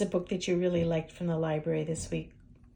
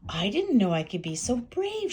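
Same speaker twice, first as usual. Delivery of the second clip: proud; 3 semitones higher, 4 dB louder than usual. Acted. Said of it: "she clucked proudly".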